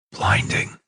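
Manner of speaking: faint, breathless whisper of Blinding. Acted. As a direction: breathe the word Blinding out unvoiced. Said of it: "he whispered".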